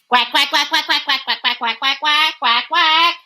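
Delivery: rapid-fire flock of quacks; duck quacking. Acted. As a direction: answer eagerly in quick quacks. Ducks answer the call.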